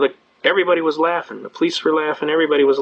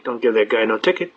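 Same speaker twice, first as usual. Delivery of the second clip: exasperated policeman; 5 semitones lower than usual. Retold or imitated. Retold policeman repeats his plea.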